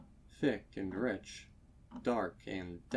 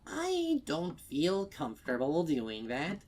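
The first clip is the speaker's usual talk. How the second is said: hesitant customer; 6 semitones higher than usual. Acted. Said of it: "hesitant customer line in story".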